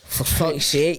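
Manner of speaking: whisper. Real, not acted. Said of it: "whispered reaction".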